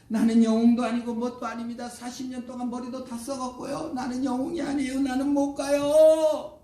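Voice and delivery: high-pitched wounded pleading, building loud; protesting refusal. Acted. Hurt Moses refuses God's call to return, mounting high protest. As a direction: wail out excuses in mounting protest.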